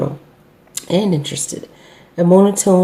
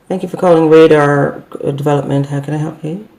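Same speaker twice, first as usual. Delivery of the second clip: dull, flat-toned phone greeting with no lift; monotone greeting. Shown as a demonstration. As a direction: sound bored and uninterested. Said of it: "so monotone".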